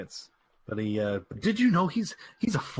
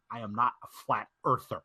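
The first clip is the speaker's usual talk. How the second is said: attempted Southern country accent, lower pitch; 3 semitones lower than usual. AJ denying he is a flat earther, in a country accent. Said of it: "In his kind of country".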